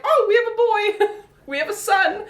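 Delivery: high, laughing joy at the news; delighted discovery. Retold or imitated. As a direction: announce the boy with glee. Discovering baby is a boy.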